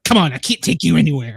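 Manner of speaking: quick, lightly acted scolding; hint of a salty old nurse; retold fed-up reproach, rattled off. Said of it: "she's old, salty nurse".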